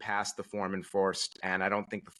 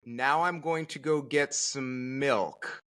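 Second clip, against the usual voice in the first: mock innocence; 4 semitones higher, slower than usual. Mock innocent reply to wife.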